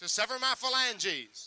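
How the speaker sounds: slow, careful dictation; slow, deliberate dictation so the kid can follow; slowed down on request. Shown as a demonstration. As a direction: spell it out slowly for the volunteer. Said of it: "Slow down".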